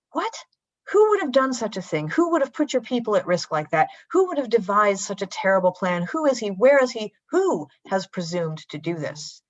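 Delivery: bursting out at whoever threatened the queen; outraged king. Acted. The king demands to know who plotted against Esther, outraged.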